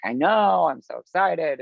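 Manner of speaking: excited squeal-like opening, lightly re-enacted. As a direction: act out an excited reply to friends. Acting her excited reply to friends.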